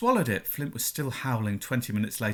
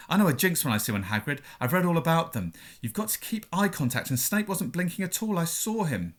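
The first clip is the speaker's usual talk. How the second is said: Hermione's line redone in her proper accent; second take in the right voice; corrected accent; 2 semitones higher than usual. Shown as a demonstration. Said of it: "Oh, sorry, wrong accent".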